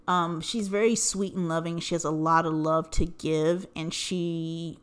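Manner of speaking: low, soft and emotional; getting emotional. Real, not acted. Daughter praising her loving mom, getting emotional. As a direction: speak softly as real feeling wells up. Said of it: "ooh, I'm gonna get emotional".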